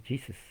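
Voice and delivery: JESUS as "JEE-sus", softly; English J and long ee in Jesus; English pronunciation. Shown as a demonstration. Teacher contrasting the same spelling across languages, English pronunciation. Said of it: "Inglés".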